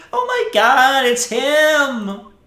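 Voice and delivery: high, loud squealing fan; screaming fangirl. Retold or imitated. Fan girl spotting her idol, shrieking with excitement. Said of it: "I heard one say".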